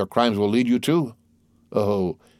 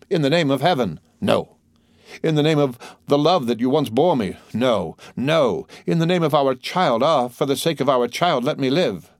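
desperate pleading; 5 semitones higher than usual. A narrator's reading. Wife begs for her life.

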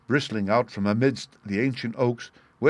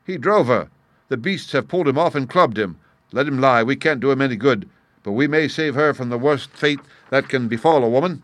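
urgent; 3 semitones higher, 4 dB louder than usual. Acted. Stranger urgent, grim.

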